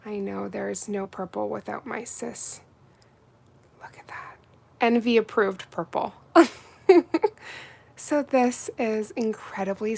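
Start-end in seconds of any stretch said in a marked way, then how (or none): 3.8-4.4 breathy awed whisper. Real, not acted. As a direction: hush in admiration.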